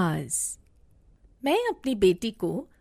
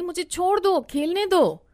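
put-on higher, louder plea of a little girl to be let go; a squirming child calling out to break free; struggling child pleading; 6 semitones higher, 4 dB louder than usual. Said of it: "बोलती रही".

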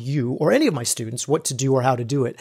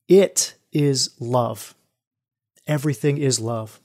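slow, reverent revelation; 2 semitones lower, slower than usual. Retold or imitated. Telling the facilitator his epiphany, slow and reverent. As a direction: let each word land slowly with awe.

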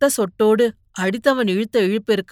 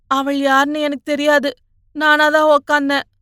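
higher, distressed confession; choked, faltering; 6 semitones higher, 4 dB louder than usual. A narrator's reading. Beaten young man owning up, choked. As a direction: force it out in a pained high voice. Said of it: "திக்கி திக்கி சொன்னான்".

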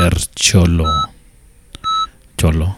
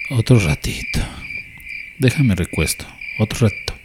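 soft, drowsy plea for more rest; half-asleep, barely getting the words out; softly, as if sinking back into the pillow; sleepy mumbling; 3 semitones higher, 7 dB quieter than usual. Acted. Just woken, begging more sleep.

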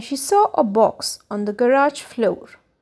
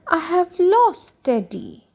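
higher, slow storybook wail; understated cry of dismay, pitched up; 6 semitones higher than usual. A narrator's reading. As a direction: mildly wail it, drawing the words out. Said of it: "cried Becky".

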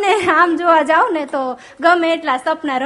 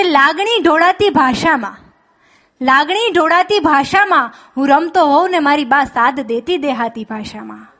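poem recital. Shown as a demonstration. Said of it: "પ્રણવ પંડ્યાની મને ગમતી એક પંક્તિ".

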